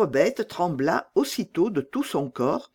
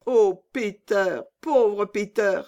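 sighing; 5 semitones higher, 3 dB louder, slower than usual. Acted. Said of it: "soupira Gerda".

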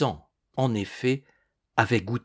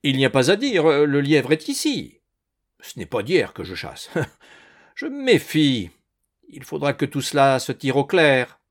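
raised, menacing voice; loud and threatening; 3 semitones higher, 5 dB louder than usual. A narrator's reading. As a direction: make it a loud warning. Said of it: "haute et menaçante".

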